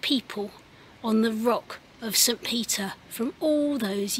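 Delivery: hushed prayer led for families. Acted. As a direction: pray gently with the children. Leads children in prayer.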